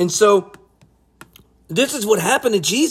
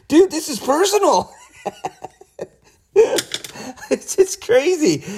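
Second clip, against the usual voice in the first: high, giggling words through real laughter; can't hold back the laugh; 9 semitones higher than usual. Real, not acted. Preacher laughing at Peter's words to Jesus, laughing. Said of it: "And I'm not laughing because".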